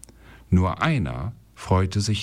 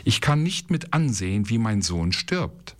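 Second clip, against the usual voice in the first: a higher, tearful cry of despair, lightly acted; weeping cry; 3 semitones higher than usual. Hagar alone in the desert, lightly acted higher tearful despair. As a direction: cry out in helpless grief. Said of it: "weinte und rief".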